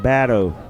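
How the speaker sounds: "Badeau" said as BAD-oh; Cajun pronunciation. Shown as a demonstration. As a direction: open "bat" vowel in "Badeau". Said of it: "you're gonna pronounce that".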